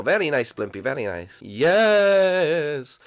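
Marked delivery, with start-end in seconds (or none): 1.4-3.0 ghost voice. Acted. Blimpy agrees.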